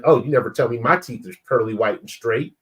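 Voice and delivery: mildly mocking, mock-hurt gripe; tone-deaf complaint. Husband to wife who praised another man's smile, mildly pointed. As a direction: imitate a lightly pointed jealous comeback. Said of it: "That's not how you said it in this tone".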